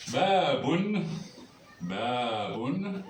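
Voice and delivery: "Baboun" first time high and loud, then repeated plainly with a rise; model word, stressed. Shown as a demonstration. Teacher introducing the Arabic word for door, a loud first model. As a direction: announce "Baboun" loudly, then repeat it calmly. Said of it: "qui veut dire une porte".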